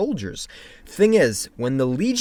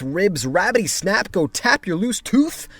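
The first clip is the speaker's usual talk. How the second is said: put-on cackling old lady; 8 semitones higher, slower than usual. Reading silly old lady taunts.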